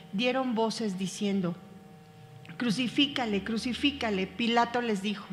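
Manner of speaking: steady, measured Bible reading; calm, even scripture reading voice. Acted. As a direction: read the passage aloud to the class. Reads the Passion passage aloud.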